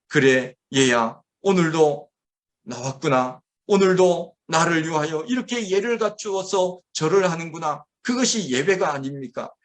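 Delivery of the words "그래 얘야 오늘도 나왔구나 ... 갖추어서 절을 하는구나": fond father voice. Retold or imitated. God greeting his child at worship, lightly warm. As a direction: speak like a pleased loving father. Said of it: "하나님께서 분명히 이렇게 말씀하실 것 같습니다".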